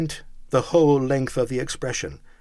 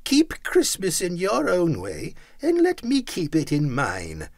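stern; 8 semitones higher than usual. A narrator's reading. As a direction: lay it down sternly. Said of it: "returned the uncle sternly".

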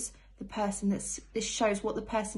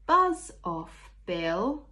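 cheeky buzz off; 4 dB louder, much slower than usual. Acted. Child in story shooing away annoying Bill. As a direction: tell the pest to go away.

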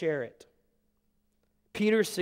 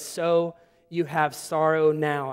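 slow emphasis; slower than usual. Shown as a demonstration. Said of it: "I need us to hear this".

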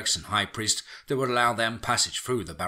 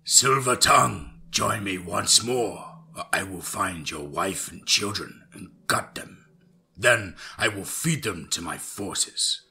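angry, impatient yell; slower than usual. A narrator's reading. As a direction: bellow the name, then draw out the threat. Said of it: "in an angry and impatient tone of voice".

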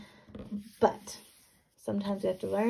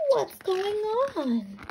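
high, loud startled question; alarmed farmer; 12 semitones higher, 4 dB louder, slower than usual. Acted. Farmer bursting out at the noisy animals, loud. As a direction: call out what's going on. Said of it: "said the farmer".

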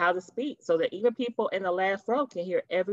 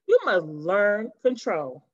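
stern command; slower than usual. Acted. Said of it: "he demands".

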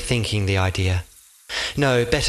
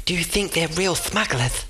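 higher voice for the derby; eager, high companion; 7 semitones higher than usual. A narrator's reading. The derby shows Oscar the port in a high voice.

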